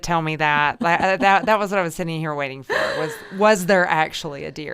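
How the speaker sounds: excited. Real, not acted. Host eagerly asking the guest about the deer, excited. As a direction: burst in, you've been waiting for this.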